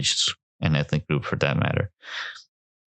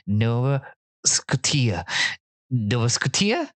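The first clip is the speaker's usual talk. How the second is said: halting, higher-pitched puzzled reader; kids reading aloud; 5 semitones higher, slower than usual. Retold or imitated. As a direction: imitate a kid stumbling over a name. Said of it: "when we make kids read".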